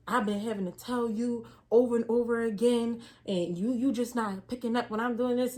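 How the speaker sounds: imitating an irritated boss laying into her; mock going off. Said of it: "going off".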